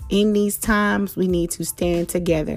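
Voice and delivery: calm closing blessing; gentle affirmation. Acted. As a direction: reassure your listeners kindly. Soft affirming sign-off.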